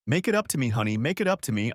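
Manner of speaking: wife begging husband; desperate pleading. Acted. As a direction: plead to be forgiven.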